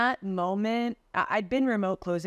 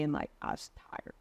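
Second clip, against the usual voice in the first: mumbled excuse; 5 semitones lower, 8 dB quieter than usual. Retold or imitated. Closer excusing a lazy call.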